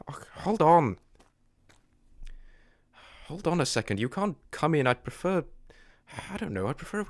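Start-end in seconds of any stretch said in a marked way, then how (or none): 0.1-1.0 sudden hushed whisper, breath only; startled whisper. Acted. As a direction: drop to a whisper as you spot it. Startled, sees something outside.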